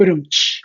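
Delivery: spoken drum-and-cymbal sting; punchline rimshot done by mouth; mock rimshot. Podcaster capping his own joke, imitated rimshot.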